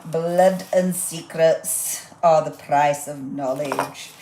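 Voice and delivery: slow, lightly hammed-up sinister narration; a hint of a mock-ominous storyteller; spooky reading. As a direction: drag it out like a horror trailer. Reads a spooky sticker sentiment.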